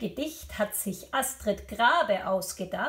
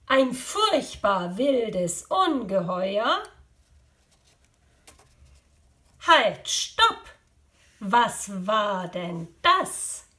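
measured, expressive storytelling; poem recital for children. Acted. Teacher reciting a poem to pupils, expressive storytelling. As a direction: read it playfully to young pupils.

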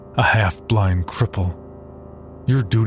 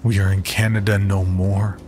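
cold. Acted. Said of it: "cold as a century-old tombstone".

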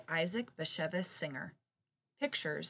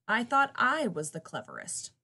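braying donkey; 3 semitones higher, 6 dB louder than usual. Acted. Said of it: "brayed the donkey".

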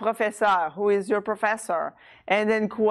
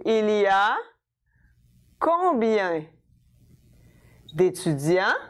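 "combien", pause, then "d'étudiants" rising at the end; spaced-out question, pitch climbing on "d'étudiants"; rising intonation. Shown as a demonstration. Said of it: "notice I rise the pitch of my voice at the end".

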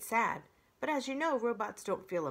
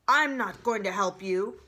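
owl screech; 9 dB louder than usual. A narrator's reading. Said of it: "screeched the owl".

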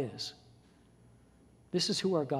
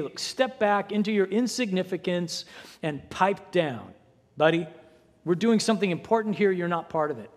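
loud, higher scolding of the man; scolding crowd; 4 semitones higher, 5 dB louder than usual. Acted. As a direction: shush him down with contempt. Crowd rebukes blind man.

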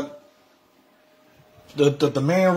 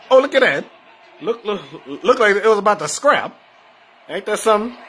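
higher, louder burst of surprise; excited; 5 semitones higher, 3 dB louder than usual. Real, not acted. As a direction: suddenly caught off guard, pitch jumping up. Watching buses nearly crash.

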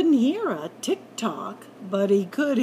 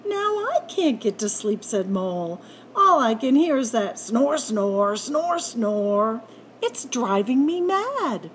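exasperated complaint; 3 dB louder than usual. Acted. Mole kept awake by snoring, exasperated whine.

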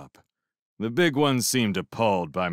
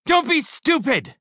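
high, loud sharp snap; snapping; 6 dB louder than usual. A narrator's reading. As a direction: snap it at him. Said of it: "snapped the shrimp".

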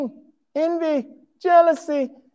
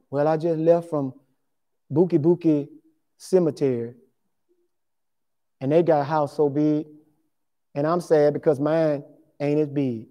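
mock sad; 9 semitones lower, 5 dB quieter than usual. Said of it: "looking all sad".

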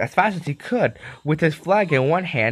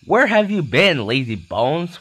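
cross whistle; 3 semitones higher, 3 dB louder, slower than usual. Acted. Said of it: "whistled Thomas".

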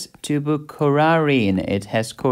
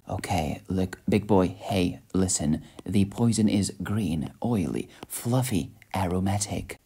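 lightly voiced, lower and softer celebrity chef rant; a hint of a TV chef scolding a cook; Gordon Ramsay impression; 3 semitones lower, 3 dB quieter than usual. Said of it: "Let's ask Chef Gordon Ramsay".

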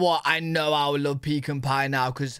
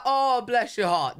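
higher, slow, sugary "Oh, bless your heart"; mock Southern sweetness; 5 semitones higher than usual. Visiting friend trying out the Southern put-down, slow and sweet. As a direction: try on the sweet drawl.

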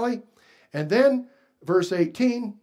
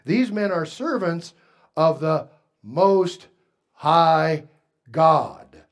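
slow, word-by-word proclamation, building louder; mild imitated outcry; 5 dB louder, slower than usual. Preacher quoting the slave girl following Paul, mildly crying out. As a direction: lightly imitate crying out, hammering the last words. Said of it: "followed Paul and us and cried out".

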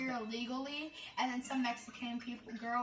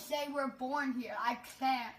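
slow, lightly put-on Mexican accent; retelling in a mock Mexican accent; slower than usual. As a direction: imitate her Mexican accent, slowly. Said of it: "putting on that racist accent".

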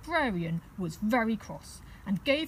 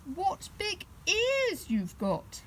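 a bit frightened; 11 semitones higher, slower than usual. Acted. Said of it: "feeling a bit frightened".

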